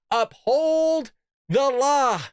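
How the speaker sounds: Uphold the law spelled out very slowly, each word hit hard; slow emphatic stress. Shown as a demonstration. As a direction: lean on Uphold, drag out the law. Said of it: "Notice it says, it says what, you guys?".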